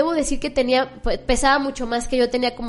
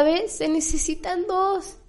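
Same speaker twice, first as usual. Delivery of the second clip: grandmother's advice; 3 semitones higher than usual. Retold or imitated. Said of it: "decía mi abuelita".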